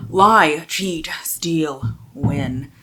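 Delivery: punchy tagline, one word at a time; deliberate tagline delivery; dramatic blurb read. Real, not acted. Reading a book blurb aloud.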